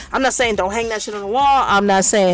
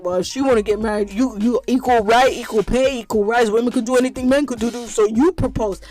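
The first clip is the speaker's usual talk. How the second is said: mock dude voice. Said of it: "every dude gonna be like".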